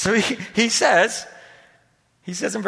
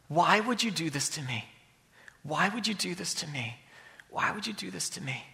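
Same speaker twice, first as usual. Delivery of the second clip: each repeat softer, dying away; repeated plea to God fading softer; 3 semitones lower, 10 dB quieter than usual. Retold or imitated. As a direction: ask God again and again, fading out. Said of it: "I want to ask the question".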